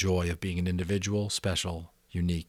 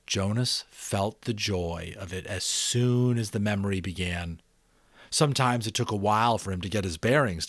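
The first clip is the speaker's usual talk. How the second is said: expressive read-aloud narration; story narration; 3 dB louder than usual. A narrator's reading. Narrator reading The Giver to subscribers, expressive storytelling.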